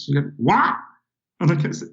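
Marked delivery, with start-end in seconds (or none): 0.4-0.8 high rising "What?" of a confused waitress; waitress not understanding the British order; baffled waitress. Retold or imitated. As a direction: play her lost, pitch up.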